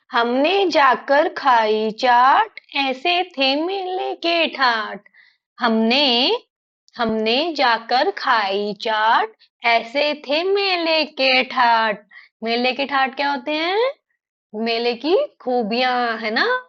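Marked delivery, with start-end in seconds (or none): 0.1-12.1 put-on slow sing-song children's verse; poem recitation. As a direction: recite slowly, stretching each word with a lilting tune.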